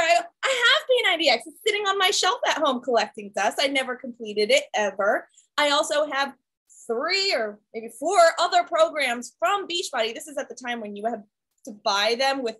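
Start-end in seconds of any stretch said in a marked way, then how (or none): 0.0-10.1 exasperated. Retold or imitated. Telling her friend about the unused P ninety X, exasperated. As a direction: blurt it out to her friend, worked up. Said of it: "I said to her".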